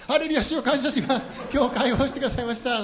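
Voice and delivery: high, loud hallelujah; mock jubilant praise. Boy free of the counselor thanking God, hammed-up jubilation. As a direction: cry out in exaggerated, laughing thanksgiving.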